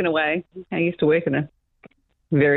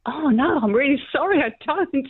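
higher-pitched, earnest retold apology; sincerely sorry at not recognising him, pitched up; genuinely apologetic; 8 semitones higher than usual.

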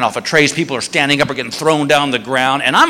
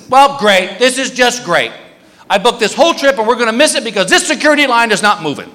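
raised, griping wife voice; exasperated wife; 4 semitones higher than usual. Retold or imitated. Wife fretting over the stuck security line, exasperated. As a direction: complain in a higher-pitched huff.

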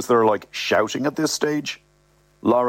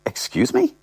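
indignant Sorcha. Acted.

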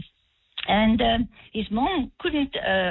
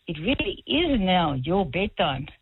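stern; 5 semitones lower, slower than usual. Retold or imitated. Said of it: "just very sternly say".

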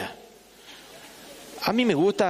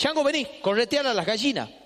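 grandma calling; 6 semitones higher than usual. Retold or imitated. Grandmother voiced calling boy.

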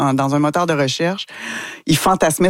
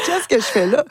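high bewildered question; 9 semitones higher than usual. Retold or imitated. Bewildered on the set.

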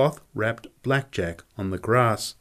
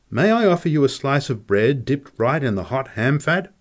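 lightly voiced polite offer, higher pitch; courteous cook; 4 semitones higher, 3 dB louder than usual. Cook offers guest bread in ham fat, lightly voiced courtesy. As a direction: offer it courteously, a little lifted.

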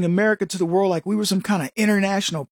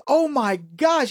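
higher, very slow mock astonishment; retold disbelief; 5 semitones higher, much slower than usual. European visitor overwhelmed by store shelves, retold disbelief. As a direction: stretch it out as an overwhelmed newcomer would. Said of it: "he couldn't believe it".

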